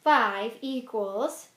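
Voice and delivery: very slow, spelled-out sum; slow choral count. Shown as a demonstration. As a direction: lead the class word by word. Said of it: "So say it with me".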